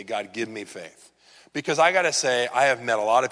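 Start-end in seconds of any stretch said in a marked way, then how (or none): 0.0-1.1 quiet prayer. Pretend. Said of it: "and say".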